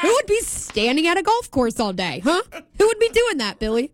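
playfully indignant, pitch jumping up on the questions; mock indignation. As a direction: grill your co-host in mock outrage.

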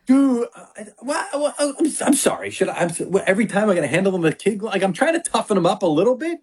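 high, tearful mock plea; a wife pleading with her husband over scolding their daughter, tearful and high; mock whiny wife. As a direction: whine it like a wife half-crying at her husband. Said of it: "my wife is on the other side, like".

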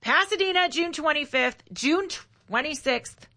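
clipped robotic Gavin Newsom cadence; staccato robotic voice. Pretend. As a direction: punch each word out like a robot. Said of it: "Did you want me to do my staccato robotic voice".

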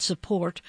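"support" given deliberate weight; stress on support. Real, not acted. Pledge host to listeners about public radio backers, stress on support. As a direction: lean on the word "support". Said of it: "I put emphasis on the word support".

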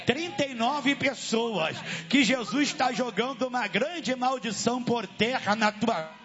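forceful revival preaching; fiery exorcism sermon. Real, not acted.

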